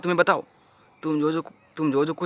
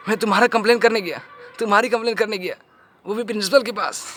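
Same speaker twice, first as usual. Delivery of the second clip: higher, incredulous echo of an accusation; scoffing, raised-pitch repeat; indignant disbelief; 4 semitones higher than usual. Acted. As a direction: throw the accusation back in disbelief. Indignantly echoes her accusation against him.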